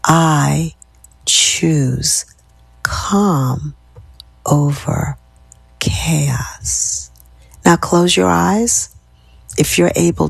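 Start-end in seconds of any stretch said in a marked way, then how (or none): 0.0-7.1 softest, whispered. Shown as a demonstration. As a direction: sink to the quietest take. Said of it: "Last time".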